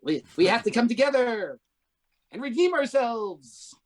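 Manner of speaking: hint of earnest little jockeys rallying; jockeys' voice. Podcast host imitating jockeys vowing to redeem themselves, barely changed. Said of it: "So they talk like this".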